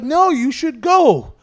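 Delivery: high, loud, slow mock mom; pushy mom voice, pitched high and slow; mock mom insisting. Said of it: "then she's like".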